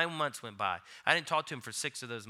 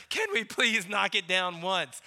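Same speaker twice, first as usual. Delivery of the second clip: higher-pitched playful begging; mock pleading; 5 semitones higher, 4 dB louder than usual. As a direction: beg like an impatient playmate. Playfully pleading with his daughter.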